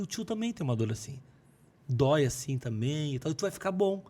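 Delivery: put-on softly comforting a little boy; reassuring a child. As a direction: speak gently and quietly, as to a sick child. Comforting a sick child, retold. (consolando uma criança, baixinho)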